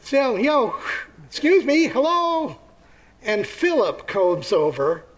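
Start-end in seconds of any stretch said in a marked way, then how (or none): 0.0-2.6 calling out. Acted. Greeks hailing the disciples over the barricade, calling out. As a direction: call out to get attention.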